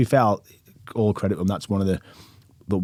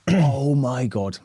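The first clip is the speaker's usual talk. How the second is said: slow stunned oh my god; 5 semitones higher, much slower than usual. Retold or imitated. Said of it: "And I was like".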